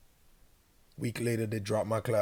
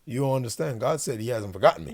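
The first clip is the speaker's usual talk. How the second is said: louder, pleading with the director; a louder plea to an official who won't listen; insistent protest; 6 dB louder than usual. Retold or imitated. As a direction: push back in disbelief. Arguing with the program director.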